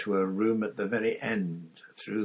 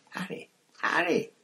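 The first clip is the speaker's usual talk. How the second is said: calling out; 9 semitones higher than usual. A narrator's reading. Ron calls out to Harry.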